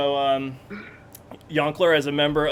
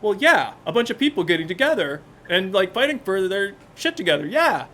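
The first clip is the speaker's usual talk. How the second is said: put-on higher, eager kid; a light touch of an excited kid; 5 semitones higher than usual. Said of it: "as a kid, I was like".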